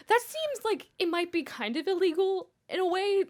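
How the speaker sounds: high, laughing comment; amused incredulity; giggling quip; laughing aside. Retold or imitated.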